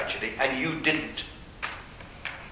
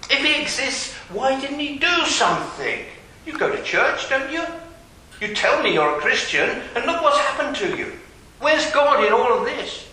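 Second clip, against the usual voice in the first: pushy challenge, higher and louder; taunting skeptic; 9 semitones higher, 4 dB louder than usual. Retold or imitated. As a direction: press the believer hard. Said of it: "And people say it today".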